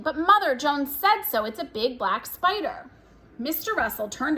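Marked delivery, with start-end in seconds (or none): 0.0-2.9 put-on girl hopping and insisting to mother; squealing. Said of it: "jumped up and down squealing".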